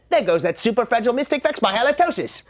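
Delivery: fast whispered aside; whispered gossip. Acted. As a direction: whisper it quickly behind your hand. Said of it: "they'd say".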